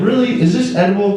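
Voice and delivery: high, incredulous "really?"; mock disgust at the food; squeaky disbelieving question; disgusted disbelief. Mocking roommates' food.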